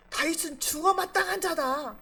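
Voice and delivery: acting out a suspicious king's accusation; paranoid accusation. Saul accusing David of ambushing him, in mock paranoia. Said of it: "그냥 피해망상에 젖어".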